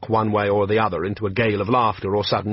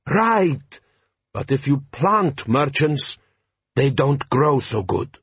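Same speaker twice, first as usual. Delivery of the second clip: put-on slow, heavy-accented bandit chief; lightly voiced warlord, measured and proud; Jabbar, desert chieftain; 4 semitones higher, slower than usual. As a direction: lean into a slow Klatchian drawl. Jabbar speaking.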